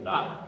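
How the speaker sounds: "La." said with a rising pitch like a question. Shown as a demonstration. Teacher demonstrating to the class, "La." on a rising tone. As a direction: slide "La." upward at the end. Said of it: "that's just the tone of the word".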